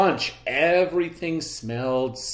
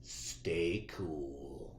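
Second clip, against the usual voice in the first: meek reply; 7 semitones lower, 13 dB quieter than usual. A narrator's reading. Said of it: "said Clark".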